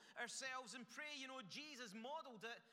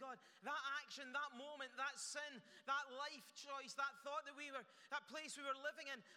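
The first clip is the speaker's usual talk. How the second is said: earnest prayer; 3 semitones higher than usual. Acted. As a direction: pour it out to God, begging for strength. Voices a prayer of repentance.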